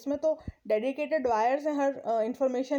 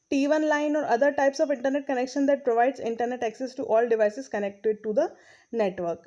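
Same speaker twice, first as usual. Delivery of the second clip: reading the English text aloud, very slowly; slow textbook reading; much slower than usual. Acted. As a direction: read each phrase out deliberately for the class. Reads textbook line slowly. (धीमी गति से पाठ पढ़ना)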